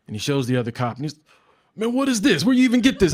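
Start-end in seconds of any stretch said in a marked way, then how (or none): 1.7-3.1 amused cop. Retold or imitated. Cop laughing at napkin weed.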